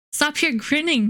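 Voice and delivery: a mild, acted shout; mock shout. A narrator's reading. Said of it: "shouted I".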